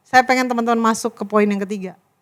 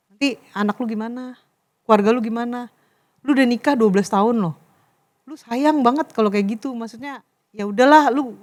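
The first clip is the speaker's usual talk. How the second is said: lower, softer heart-to-heart advice; gentle admonishing; 3 semitones lower, 3 dB quieter than usual. Retold or imitated. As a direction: reason quietly with a straying friend. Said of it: "kan pengennya baik-baik ya".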